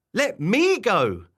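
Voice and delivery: slow, loud copycat demand; mimicking yell. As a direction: echo the yell, stretched out with weight on ME. Wobbler copies Barbara's demand back.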